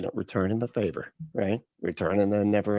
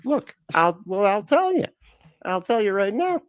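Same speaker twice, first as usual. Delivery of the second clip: mock angry rant; 10 semitones higher, 3 dB louder than usual. Balaam answering the donkey again.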